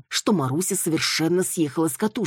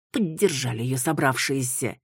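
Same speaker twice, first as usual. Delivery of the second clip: ordinary delivery, nothing marked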